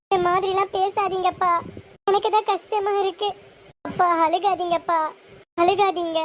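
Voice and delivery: high, slow, upset daughter; tearful pleading. Acted. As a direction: plead with a crying father, close to tears yourself. Daughter consoles weeping father before wedding. (அழுகை கலந்த கெஞ்சல் குரல்)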